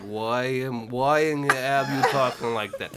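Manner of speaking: scolding Russian mother voice; fake Russian accent. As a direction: scold as a proud Russian mom. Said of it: "And then Bailey's mom was like".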